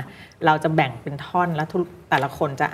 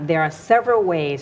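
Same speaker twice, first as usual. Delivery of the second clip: "There are several ways" read very slowly, phrase by phrase; slow demo reading; 3 dB louder, much slower than usual. Shown as a demonstration. Teacher models the opening sentence for the class, very slowly. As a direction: stretch out "There are several ways" so every word is clear. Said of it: "แล้วก็ควรจะเน้นอะไร".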